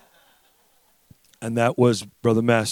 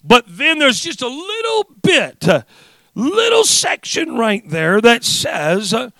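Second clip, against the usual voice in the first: rhythmic, emphatic pulpit cadence; fervent preaching; 8 semitones higher, 8 dB louder than usual. Real, not acted. Preacher setting out the triumphal entry for congregation, fervent. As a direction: preach the scene with drive and conviction.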